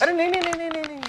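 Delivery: high, rushed string of no's; eager protest. Acted. Hastily rejects her new plan.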